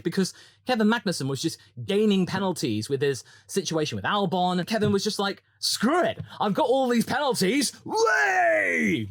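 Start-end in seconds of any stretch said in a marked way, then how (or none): 5.6-9.1 put-on high shouted Danish accent. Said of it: "But in a Danish accent".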